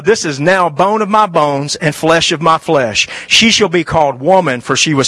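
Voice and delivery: solemn quote. Acted. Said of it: "uh, he said".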